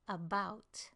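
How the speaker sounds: "About" with a short, quick "uh" first; schwa first syllable. Shown as a demonstration. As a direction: reduce the A of "About", lean on BOUT. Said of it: "the first syllable uses a schwa sound".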